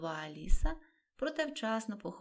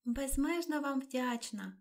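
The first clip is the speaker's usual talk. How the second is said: higher, slow grateful exclamation; relieved exclaim; 6 semitones higher, slower than usual. A narrator's reading. Alice thanks them, relieved the dance ended, exclaiming. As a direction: gush your thanks with relief. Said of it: "вигукнула Аліса".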